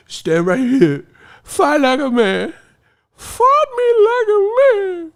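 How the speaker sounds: high, drawn-out shout; mock frustrated yell. Frustrated boxer calling out a runner, mock yelling.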